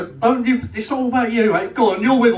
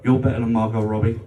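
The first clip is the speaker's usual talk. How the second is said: mock tender declaration; 6 semitones lower than usual. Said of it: "said to her".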